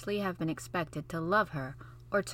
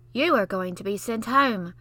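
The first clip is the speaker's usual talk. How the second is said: smug louder taunt; 2 semitones higher, 5 dB louder than usual. Acted. Basil gloating to Mary, taunting. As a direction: gloat at her.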